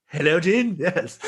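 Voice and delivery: polite phone voice. Retold or imitated. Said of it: "It's like the reverse of that".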